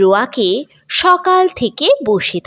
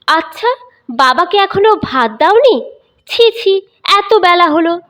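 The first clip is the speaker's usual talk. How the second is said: complaining; 7 semitones higher than usual. Acted. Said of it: "বাবা মাকে অনুযোগ করলেন".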